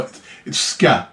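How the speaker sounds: slow Jamaican-accented ska. Shown as a demonstration. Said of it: "That's how Jamaicans say it".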